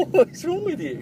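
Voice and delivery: high, squeaky mock outrage; squeaky teasing voice. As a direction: tease in a silly high voice. Teasing friend who refused.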